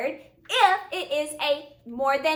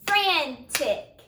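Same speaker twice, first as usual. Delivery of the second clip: Frantic split into two clapped beats, fran and tic; clapped syllables. Shown as a demonstration. Teacher claps Frantic with the class, syllable by syllable. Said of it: "Let's clap that and see".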